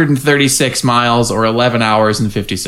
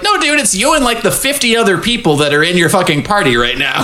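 exasperated retort; 6 semitones higher than usual. Retold or imitated. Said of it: "part of me wants to be like".

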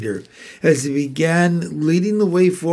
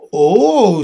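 loud, higher startled "oh"; sudden exclamation; 5 semitones higher, 7 dB louder than usual. A narrator's reading. Susan suddenly interrupts the others in the wardrobe, sudden exclamation. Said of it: "said Susan suddenly".

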